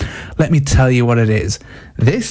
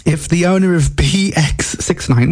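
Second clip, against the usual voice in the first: pompous announcer voice, slightly raised; mock announcement; 3 semitones higher than usual. Host starts a mock-official appeal for the plate owner. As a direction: put on a grand official appeal. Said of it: "what is this?".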